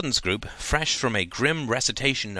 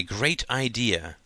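"great idea" said slowly, each word set apart; capitalised emphasis; slower than usual. A narrator's reading. Gordon solemnly announces his purpose to the table, capitalised emphasis on "great idea". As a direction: give "great idea" audible capital letters on both words. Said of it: "They could all hear both capital letters".

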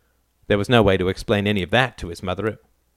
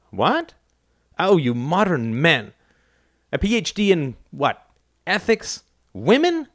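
a hint of a sneering mother, pitched up; mother mocking her son, mildly higher; lightly voiced scornful mother; 7 semitones higher than usual. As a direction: scoff at his degree, mockingly. Mother mocking son's degree.

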